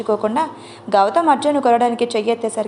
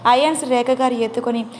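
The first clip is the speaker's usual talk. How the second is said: ordinary delivery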